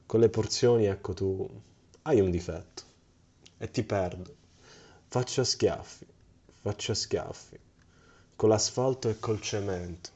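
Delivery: grand, swelling recital of a poem; theatrical swelling poetry reading. Pretend. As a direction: declaim it like a stage poet. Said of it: "reciterò una delle poesie".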